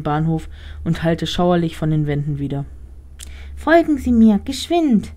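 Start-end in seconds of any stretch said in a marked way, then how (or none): 3.6-5.1 high, urgent little rat. Acted. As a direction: squeak out an urgent order. Talking rat urges Emily.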